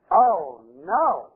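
lightly acted cry of dismay; mock dismay. Mother learns she is expecting, mock dismay. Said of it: "her first reaction is".

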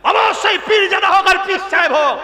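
shouted, high sermon climax; fiery preaching. Acted. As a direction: preach it hard and high to the crowd. Preacher rising to full force.

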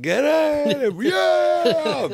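mock yell. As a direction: bellow it like a hostile crowd. Crowd yelling him off stage.

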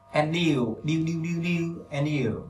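"and you" as "en-diu", the joined "điu" drilled alone between takes; linked sounds. Shown as a demonstration. Teacher drilling "and you" for learners, linked sounds. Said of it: "nối âm".

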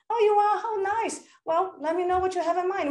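high, bright "Oh, you are?"; delighted surprise. Retold or imitated. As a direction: sound pleased at the news. Her delighted reply.

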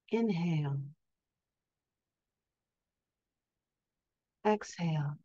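calm, measured meditation voice with long pauses; guided sleep hypnosis. Acted. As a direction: gently guide listeners into rest, leaving space for each breath. Leads a sleep hypnosis session.

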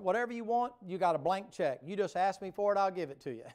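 high, loud, open-handed offer; generous Lord. Acted. The Lord offering anything, loud and high. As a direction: boom out the blank check. Lord's answer voiced.

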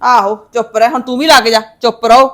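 low, bitter mimicking; resentful echo. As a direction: throw the hushing back, pitched well down. Mother resentfully echoes being hushed.

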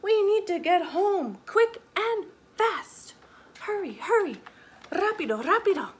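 high, loud hurry-up call; urgent shout. A narrator's reading. Mama needing to get home fast, shouting urgently. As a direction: urge the driver on loudly. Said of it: "Mama shouts".

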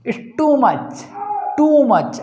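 "too" stretched long in "too much"; "too much" with a lengthened oo; long oo sound. Shown as a demonstration. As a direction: hold the oo of "too", then finish "much". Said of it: "इससे भी ज़्यादा लंबा".

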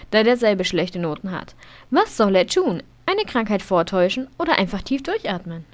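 lively narration of a game event; narrating a sim's school test playfully; story reading. Acted. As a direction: read it like a storybook. Reads game story text aloud.

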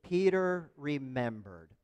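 slow, measured, for joining in; leading recitation. Real, not acted. Preacher leading the congregation in repeating it, slow and measured. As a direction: draw both words out for others to follow.

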